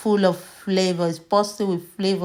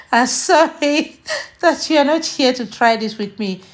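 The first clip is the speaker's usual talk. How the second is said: laughing; 4 semitones higher than usual. Real, not acted. Laughing while tasting food.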